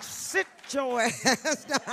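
loud, slow, drawn-out scolding; mock church mama yelling at latecomers to sit down; church mama's loud scold. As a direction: belt it like a church mother shushing latecomers. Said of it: "that's how they said it".

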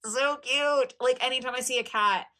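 high, delighted coo; gushing. Real, not acted. Gushing to viewers over the cat figure, high delighted coo. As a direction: gush over the kitty.

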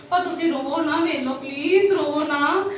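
soothing. Acted. Soothing the crying sister-in-law.

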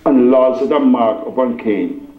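measured reading with long pauses; scripture reading. Real, not acted. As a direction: read it out solemnly, phrase by phrase. Reads scripture to congregation.

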